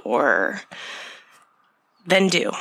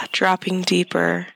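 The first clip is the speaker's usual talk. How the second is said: guided meditation. Acted. Leads a breathing meditation.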